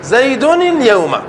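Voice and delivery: slow, deliberate reading of the example; slow example sentence. Shown as a demonstration. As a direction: spell the example out slowly for the class. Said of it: "نفيت عن جزم عن زيد الخروج". (قراءة بطيئة متأنية للمثال)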